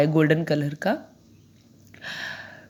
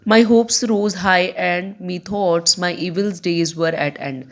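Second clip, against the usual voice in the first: slow verse reading, dropping away at the close; measured classroom reading of a poem; poem recitation; much slower than usual. Acted. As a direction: recite the line slowly and deliberately. Reads the poem aloud.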